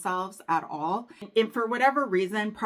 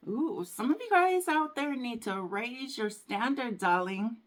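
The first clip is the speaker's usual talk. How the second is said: higher, sassy scolding with a darling; sassy darling advice; 5 semitones higher than usual. Acted. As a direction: give them some sass.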